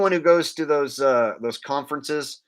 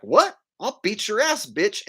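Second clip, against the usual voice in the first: higher, indignant comeback; mock angry threat; 8 semitones higher than usual. Person in the videos threatening the street activist, mock anger. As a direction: imitate an angered passerby. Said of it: "people in the videos will be like".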